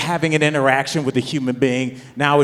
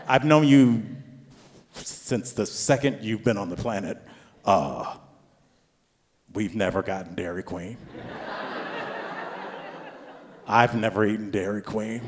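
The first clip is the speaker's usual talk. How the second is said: soft, low, halting disbelief; acted dad holding back his outrage; stunned disbelief; 4 semitones lower, 6 dB quieter than usual. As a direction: let long pauses hang between quiet phrases. Stunned dad reacts to son's request.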